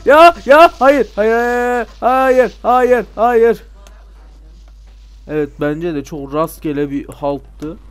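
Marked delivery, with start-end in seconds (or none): 0.0-3.6 panicked yelling. Real, not acted. Panicked yelling at game danger.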